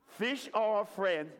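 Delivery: stretched-out, light Australian accent. Shown as a demonstration. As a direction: lead the group in an Australian accent. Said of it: "With your best Australian accent now".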